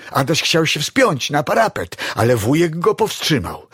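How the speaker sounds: plain reading voice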